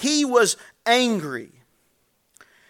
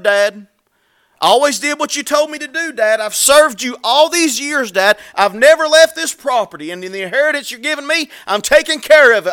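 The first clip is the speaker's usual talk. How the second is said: indignant complaint; 3 semitones higher, 5 dB louder than usual. Acted. Older son complaining to father.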